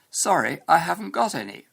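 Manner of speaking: reply in classroom standard British English; standard English accent. Shown as a demonstration. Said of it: "what you learn in your English classes".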